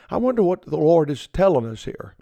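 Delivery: mock puzzled musing, not really wondering; tongue in cheek. Preacher teasing his radio listeners with mock puzzlement. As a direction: play dumb about an obvious verse. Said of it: "That's just a little tongue in cheek".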